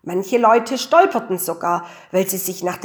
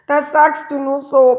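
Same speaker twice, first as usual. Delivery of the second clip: put-on higher, thin little-boy peep; small peep; 5 semitones higher, 4 dB louder than usual. A narrator's reading. Franz doubting Mama's comfort, small peep. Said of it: "piepste der Franz".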